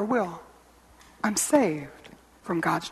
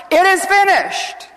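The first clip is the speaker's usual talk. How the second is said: loud, high, drawn-out proclamation; Jesus crying out; 12 semitones higher, 7 dB louder, slower than usual. Retold or imitated. Preacher voices the cry from the cross, loud and triumphant. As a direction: ring it out slowly at full voice. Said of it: "he cried out in a loud voice".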